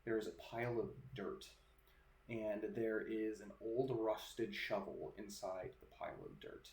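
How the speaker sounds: measured narration with pauses between phrases; game master's scene setting. Acted. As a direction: set an eerie scene, unhurried and hushed.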